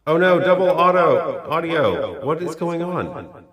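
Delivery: loud, high, startled cry with echo; alarmed outburst doubled by echo; echoey God voice. Real, not acted. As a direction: call out high as your voice bounces back. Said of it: "your echoey God voice".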